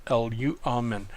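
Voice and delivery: L U amen said syllable by syllable; broken into syllables. Shown as a demonstration. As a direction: sound out L U amen in its separate parts. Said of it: "that's how we would break apart the word".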